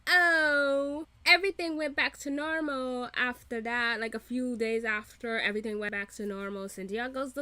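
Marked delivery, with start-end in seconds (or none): 0.1-4.0 loud, raised mocking imitation; exaggerated retelling, high and loud; Armand. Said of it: "Armand is like".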